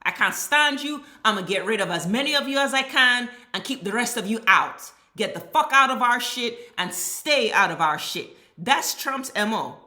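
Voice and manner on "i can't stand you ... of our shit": mock Trump. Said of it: "He has made it obvious".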